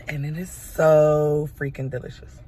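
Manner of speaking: loud, emphatic gushing about the taste. Real, not acted. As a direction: rave about it, leaning on so. Raving about her mocha latte.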